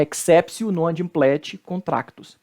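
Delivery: exceptio with T as S, "eksépsio"; correct Latin pronunciation. Shown as a demonstration. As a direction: exceptio ending in "-sio". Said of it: "O T você troca pelo C".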